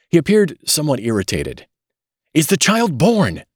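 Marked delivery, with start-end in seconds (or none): 2.3-3.4 high, drawn-out plea; slow, pleading question pitched high; begging. A narrator's reading. Mister Button to the doctor, begging for news. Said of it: "begged Mister Button".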